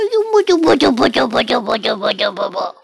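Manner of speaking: squeaky babble that fades away. Real, not acted. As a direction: gibberish pet talk, trailing off. Babbling to the pet.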